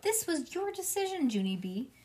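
high, emphatic scolding; angry mother. A narrator's reading. Mother tells child whose choice it was, angrily. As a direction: put the blame back on the child. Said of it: "Mother did an angry breath".

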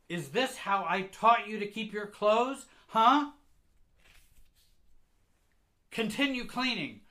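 high, very loud tirade building in force; furious scolding mother. Acted. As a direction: tear into the child at a shout. Enraged mother scolding her child.

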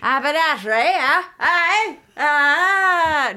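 high-pitched Cockney with the H dropped; badly faked Cockney, pushed up high; mock Cockney accent. Host retries haberdashery on request, exaggerated Cockney accent. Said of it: "Drop the H".

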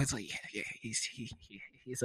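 low, very soft, stammering; sheepish reply. Retold or imitated. Boyfriend answering about his age, low soft stammer. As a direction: mumble it low and halting.

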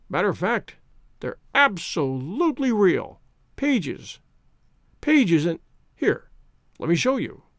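lightly voiced eager drunk man; a hint of a tipsy enthusiast; tipsy middle-aged man. Drunk owl-eyed man speaking.

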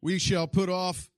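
anointed reading voice. Retold or imitated. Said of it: "anointed voice".

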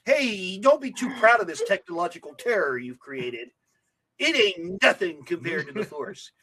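lightly voiced petulant brat; mock whine, starting high; whiny Darth Vader. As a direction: grumble it like a whiny teen. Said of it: "ended up with a whinier Darth Vader".

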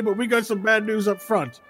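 loud announcer voice stumbling over the event name; intercom announcer. Acted. GM voicing the announcer to the players, hammed-up tournament host. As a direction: boom it out like a tournament host on the speaker. Announcer delivers bad news.

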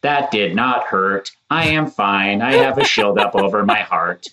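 slow, stiff robotic voice. Retold or imitated. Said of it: "get all robotic and are like".

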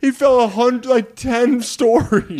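high slow laughing speech. Real, not acted. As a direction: laugh through the words. Laughing at friend's reaction.

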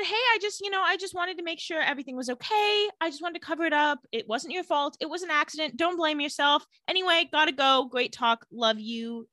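high, hurried mock excuses; hasty brush-off. Caroline covering up to Tyler, hasty brush-off. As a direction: rattle off excuses lightly to escape.

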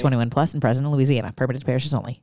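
fast legal disclaimer read; rapid disclaimer. Pretend. Cohost showing off his ad disclaimer, fast read. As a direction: rattle it off like the end of an ad. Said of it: "I can spit out a disclaimer".

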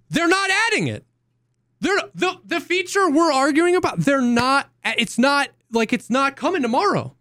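high, strained exasperated voice; exasperated protest. Retold or imitated. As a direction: protest in a high, cracking pitch. Exasperated quote to chat.

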